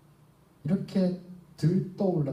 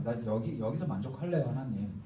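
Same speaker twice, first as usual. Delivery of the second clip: 1 resigned murmur; 5 semitones lower, 6 dB quieter than usual. Acted. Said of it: "좋게 말하면은 그냥 내 인생에 자족하면서".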